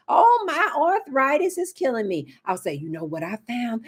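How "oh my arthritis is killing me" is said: lightly mock an aching elder; mock old complainer. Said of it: "talk that old talk".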